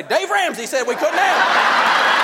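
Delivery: high, slow mock mom voice; imagined mom. Imagined mom telling her kid no, comic high voice. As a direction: drag it out like a worn-out mother. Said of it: "she was gonna say".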